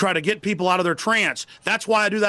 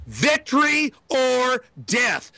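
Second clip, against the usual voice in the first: dramatic battle cry; 4 semitones higher, much slower than usual. Retold or imitated. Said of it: "what Colonel Travis said at the Alamo".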